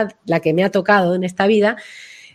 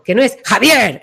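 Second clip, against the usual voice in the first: demo enfadada; 4 dB louder than usual. Shown as a demonstration. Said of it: "en plan enfadado".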